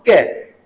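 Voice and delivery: "कै" starting on a hard k sound. Shown as a demonstration. Teacher showing the sound of C, "कै" with a hard k. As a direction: hit the k at the start of "कै". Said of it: "hard sound आएगा सी का".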